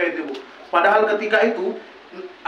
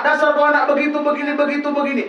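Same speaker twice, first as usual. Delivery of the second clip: higher mock scolding of the child; scolding mother; 5 semitones higher than usual. Mother scolding her child, higher mock scolding. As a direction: nag the child like a fed-up mother. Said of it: "Marah dia sama anak".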